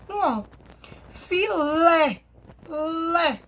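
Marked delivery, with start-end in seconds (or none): 1.1-2.2 filé split up, weight on lé; strong final syllable. Shown as a demonstration. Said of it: "Ó o som forte". 2.7-3.4 lé alone, open and held; strong syllable. Shown as a demonstration. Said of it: "Ó o som forte".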